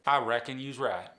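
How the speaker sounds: "I reckon you's right" with Appalachian "right" as "raht"; drawn Appalachian vowels on "right"; Appalachian accent. Shown as a demonstration. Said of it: "whereas Earl's gonna say".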